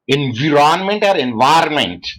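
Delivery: environment said two different ways; contrasted pronunciations. Shown as a demonstration. Lecturer quizzing class on pronunciation, environment in two contrasted ways. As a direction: set one environment against the other, each spelled out by sound. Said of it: "Which is the correct way of pronunciation?".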